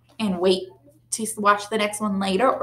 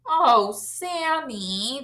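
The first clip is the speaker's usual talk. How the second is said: moan; 3 semitones higher, 3 dB quieter, much slower than usual. Acted.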